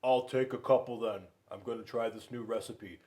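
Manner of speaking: lightly voiced bear; a hint of a gruff bear; Bruce's voice. Bruce buying eggs from Mother Goose, lightly voiced. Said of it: "Bruce was like".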